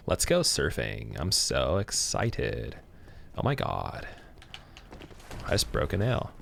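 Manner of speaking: slow, slurred Californian drawl, words stretched out; hammed-up Cali accent, slurring as if drunk; mock Cali accent. Streamer mimics Californians off to go surfing, slurred Cali accent. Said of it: "Cali accent, everyone slurs like they're drunk".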